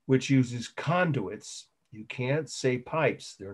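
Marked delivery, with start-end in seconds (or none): 0.1-1.7 slow, deliberate dictation; very measured classroom dictation. Real, not acted. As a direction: spell it out word by word for note-takers. Dictating a definition to students.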